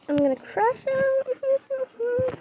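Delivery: very slow, high put-on threat; mock menace. Player vowing to crush the monster, slow mock menace. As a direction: stretch out a hammed-up villain threat.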